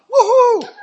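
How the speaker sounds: high, loud woohoo; excited whoop. Shown as a demonstration. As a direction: let out a party whoop. Whooping to cheer on wildness.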